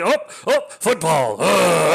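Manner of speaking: high, loud, hammed-up fighting back tears; laughing at himself as he fakes choking up; mock choking up. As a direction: ham up holding back tears on the train. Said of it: "I'm trying not to cry".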